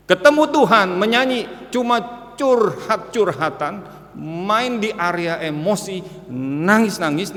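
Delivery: loud preacher's outburst; preaching at full force. Acted. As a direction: hammer the point home.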